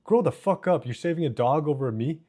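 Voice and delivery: high-pitched, indignant cussing; mock mad. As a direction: act out being a little mad at bro. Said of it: "I'd be a little mad".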